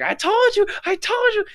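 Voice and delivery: high-pitched mock yell of a mother; imitated scolding mother. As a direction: scold like an angry mom, very high. Mother scolding crying child, retold.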